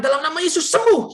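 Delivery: retold command of faith; urgent prayer command. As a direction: declare it with urgent conviction. Urgent phone command to pray healing.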